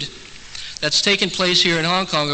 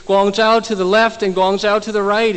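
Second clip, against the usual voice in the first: higher, louder exasperated retelling; very frustrated; 5 semitones higher, 4 dB louder than usual. Retold or imitated. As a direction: push the question out in exasperation. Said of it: "Very frustrated at this point".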